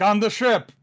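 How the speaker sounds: high loud shout; guard yelling where the fire is. Retold or imitated. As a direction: shout the answer up to him. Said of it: "He's like".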